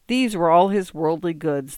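put-on reading aloud in a British accent. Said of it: "the British voice continued".

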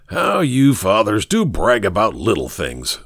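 mild mock scorn at boasting fathers; a light snort of contempt; teasing, scoffing bachelor. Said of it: "snorted Ricketts".

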